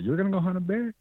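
high, disbelieving question; father-in-law can't believe it, pitch jumping up; incredulous. Retold or imitated. Father-in-law doubting the new guy's bear hunt, incredulous high question. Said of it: "And he's like".

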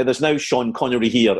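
imitated prim Edinburgh accent. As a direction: put on a horrible Edinburgh accent. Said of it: "that horrible Edinburgh accent that she had".

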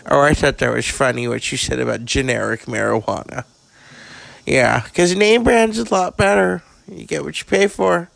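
lightly voiced raspy old actress, bawdy and blunt; a hint of a jaded Hollywood diva dishing dirt; Carrie Fisher. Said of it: "So, Carrie".

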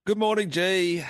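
bright booming good morning; hearty greeting. Real, not acted.

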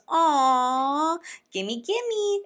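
put-on high, loud squealing gimme like a little kid; mocking a grown woman acting like a toddler; toddler grabbing. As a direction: mimic a greedy toddler reaching for candy. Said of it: "like a toddler".

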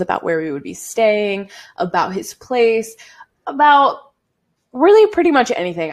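drip sarcasm on every word; sarcastic. Retold or imitated. Mocking herself for flying to see a homeless man, sarcastic. Sarcastic reply to couch-hopping news.

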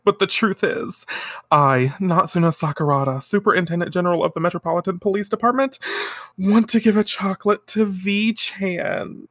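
high-pitched, mock-tearful confession; mock weeping. Superintendent confessing her chocolate crush, mock weepy. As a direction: declare it plaintively, drawing out the ending. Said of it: "to, to weep".

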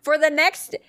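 high, laughing through words. Real, not acted. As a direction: try to talk through giggles. Trying to continue while laughing.

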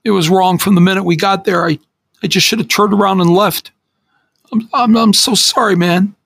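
high, begging, near tears; pleading for forgiveness, voice cracking high; tearful apology. Acted. Teen begging his friend's forgiveness, high and tearful.

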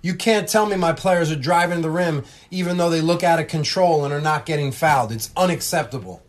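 a loud, high coach protest; hammed-up outrage over the foul count; mock angry coach. Coach protesting the foul count to the ref, loud mock anger.

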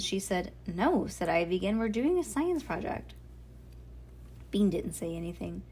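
measured, clearly projected storybook reading; story read-aloud. A narrator's reading.

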